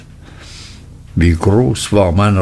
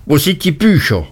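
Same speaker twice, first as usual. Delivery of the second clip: horrified cry; 6 semitones higher, faster than usual. A narrator's reading. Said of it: "rief er mit entsetzter Miene".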